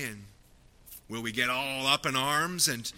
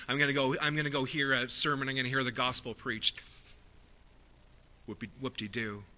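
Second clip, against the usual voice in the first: mock apathy; faster than usual. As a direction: act out an indifferent churchgoer, hurried then deflated. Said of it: "responding today in apathy towards Jesus Christ".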